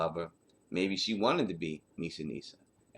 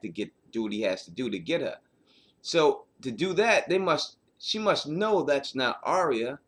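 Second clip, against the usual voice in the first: excited; 5 semitones higher, 4 dB louder than usual. Real, not acted. Host building excited argument.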